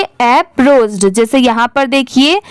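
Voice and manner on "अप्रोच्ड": अप्रोच्ड slow, as one word; careful pronunciation. Shown as a demonstration. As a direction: say अप्रोच्ड clearly to be remembered. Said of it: "आप अच्छे से याद रखिए". (अप्रोच्ड धीरे, साफ़ उच्चारण)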